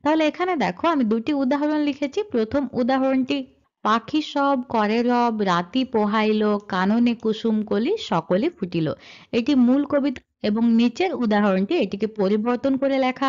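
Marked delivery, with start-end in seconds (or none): 3.8-8.9 slow, measured recital of the verse; reading the original poem to the class; poem recitation. Shown as a demonstration. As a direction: recite each line slowly and evenly.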